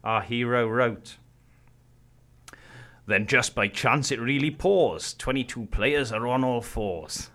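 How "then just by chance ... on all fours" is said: slow, dramatic poem reading; poem recitation. Acted. Reading the poem aloud on the podcast, slow and dramatic. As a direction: declaim it like a bard.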